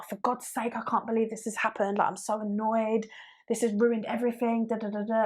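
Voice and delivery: a touch of melodramatic complaining; mock moaning. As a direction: whine about something tiny. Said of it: "imagine I'm moaning about something".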